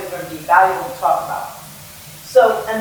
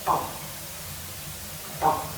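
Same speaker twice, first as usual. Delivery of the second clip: heartbeat; 5 semitones lower, 12 dB quieter than usual. Shown as a demonstration. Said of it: "and this is a heartbeat".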